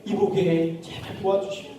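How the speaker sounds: softened, acted begging; earnest pleading. Man begging his friend for bread, earnest pleading. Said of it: "너무 간절하게".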